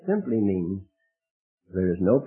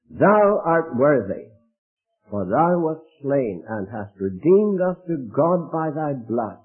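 loud, slow, higher proclamation; worshipful cry; 4 semitones higher, 4 dB louder than usual. Pretend. The saved crying praise to God, loud and slow. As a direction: ring it out like a heavenly chorus. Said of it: "they have one cry".

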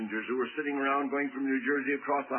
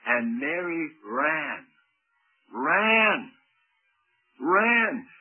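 building repetition; 2 semitones higher, 6 dB louder, much slower than usual. Real, not acted. Building repeated ran.

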